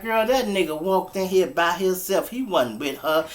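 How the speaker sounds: loud friend. Retold or imitated. Friend loudly backing her up.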